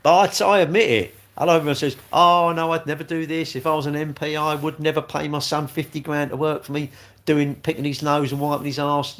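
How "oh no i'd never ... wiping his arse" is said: mock protest. Streamer mimicking everyone who claims they'd never do this, mocking. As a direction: parrot their denials in a raised, sustained pitch.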